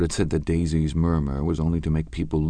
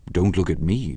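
retort. Acted. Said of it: "Daisy retorted".

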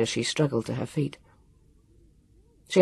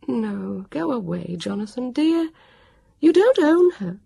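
put-on higher, firm dismissal of a boy; Petula, firm; 8 semitones higher than usual. A narrator's reading. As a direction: shoo the boy off with kindly firmness. Petula shoos Jonathan away.

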